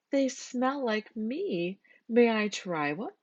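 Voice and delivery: high and very slow, pleased; smiling Miss Skunk. A narrator's reading. Miss Skunk asking Mister Goat for an egg, high and pleased. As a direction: coax it out sweetly. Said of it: "Miss Skunk smiled".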